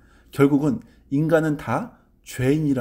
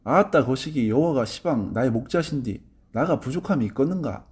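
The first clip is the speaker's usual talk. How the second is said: Jeolla dialect. Retold or imitated. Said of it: "전라도 사투리입니다".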